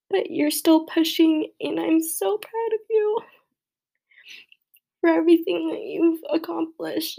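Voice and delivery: proud, voice climbing high with tears; welling up in tears. Real, not acted. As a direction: push through as the crying rises. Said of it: "I'm crying so hard".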